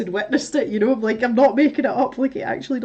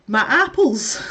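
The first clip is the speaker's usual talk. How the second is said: sleepy indignation; 4 semitones higher, 5 dB louder, slower than usual. Retold or imitated. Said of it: "And he's like".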